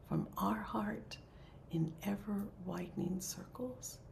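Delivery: soft, phrase-by-phrase blessing; closing dedication prayer. Real, not acted. Leader dedicates any merit to all beings, soft prayer. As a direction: offer it quietly, pausing between phrases.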